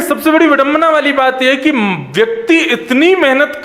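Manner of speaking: quick, lifted quote of the yogi's words; quoting the sage. Retold or imitated. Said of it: "वो कह रहे हैं".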